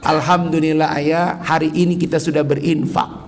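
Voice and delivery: calm acceptance after the shouting; grateful wife. Retold or imitated. Wife gently thanks her husband for giving, calm and sincere. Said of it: "Istrinya justru berkata".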